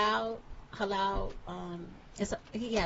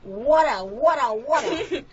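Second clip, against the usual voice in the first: repeated New York "water", drawn out; New York "water" with a laugh; New York accent; slower than usual. Shown as a demonstration. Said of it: "You're saying water".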